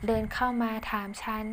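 plain reading voice

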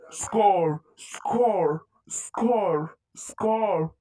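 whispered haunting voice in the head; a ghostly whisper of the name; eerie whisper. Acted. Name echoing in his head.

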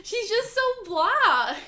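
slow, high, bored drone; blah voice. Pretend. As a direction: drag it out, dull and bored. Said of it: "do your blah voice".

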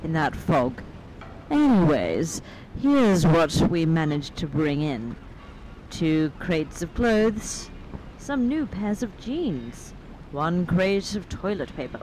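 slow, measured note reading; reading aloud. A narrator's reading. Player reads found manifest to friends, slow reading aloud. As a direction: read the note out unhurriedly.

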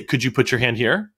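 same calm request repeated, unruffled; neutral, measured repeat of an instruction. Retold or imitated. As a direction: imitate a patient teacher, evenly. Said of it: "calm tone of voice, just say".

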